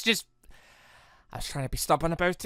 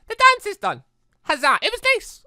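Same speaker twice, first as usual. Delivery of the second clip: much higher, bright cheer; cheerful celebration; 8 dB louder than usual. Real, not acted. Gamer cheering the completed dance to viewers, high and loud. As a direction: celebrate the finish.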